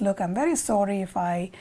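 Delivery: mildly acted, subdued apology; apologetic.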